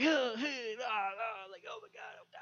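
high whine fading to a whisper; a high cry sinking to breathless; mock despair. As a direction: whimper in defeat. Retelling disappointment.

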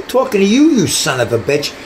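put-on reliving the old rage; angry retold challenge. Retold confrontation with the cop.

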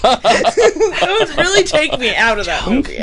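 talking through laughter; laughing, slowed; laughing while talking. Real, not acted.

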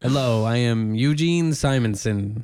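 a light put-on nerdy podcast host voice; Eugene Simonson voice. Host greeting listeners, a hint of a put-on character voice. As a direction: introduce yourself as a lonely host, lightly voiced. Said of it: "this accent of a new character".

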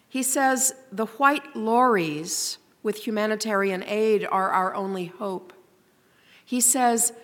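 measured, grave poetry recitation with long pauses; solemn poem reading. Acted. Reads a poem aloud.

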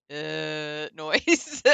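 one long slurred "uh"; slurred noise. Shown as a demonstration. Australian describing slurred morning speech, slurred noise. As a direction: run it all into one lazy noise. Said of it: "one long, like, just".

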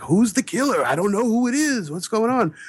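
put-on childlike confusion. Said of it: "I'm like".

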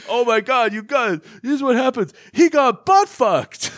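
high-pitched, hammed-up gossip announcement; mock excited blurting. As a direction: blurt the secret like scandalous news, voice way up. Acts character blurting out the secret.

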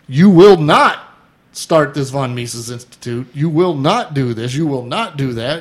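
stern, forceful opening then settling; angry letter quote. Retold or imitated. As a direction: read out an angry letter, firmly. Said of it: "He got a very angry letter".

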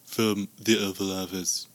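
lightly voiced Oval Office speech; presidential address. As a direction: address the nation as Trump. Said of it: "clip of your new version".

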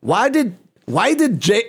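light put-on Mexican accent, playful. Joking on the podcast while reading a ChatGPT joke, mock Mexican accent. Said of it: "I'm doing this in a Mexican accent".

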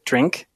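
"drink" set apart after a pause; stress on drink. Acted. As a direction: lean pointedly on the word "drink". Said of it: "and I emphasize this word".

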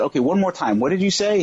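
asking the editor to repeat it, in mock disbelief. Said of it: "in this weird state of shock".

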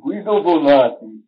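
carefully pronounced Italian name; Italian accent. Shown as a demonstration. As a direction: say Guido Bonatti with Italian vowels, each syllable distinct. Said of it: "properly be spoken in with an Italian accent".

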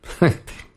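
breathy chuckle at own joke; corny dad laugh. Real, not acted. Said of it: "classic dad jokes".

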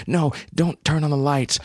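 high-pitched urgent plea; pleading. A narrator's reading. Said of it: "pleaded Hope".

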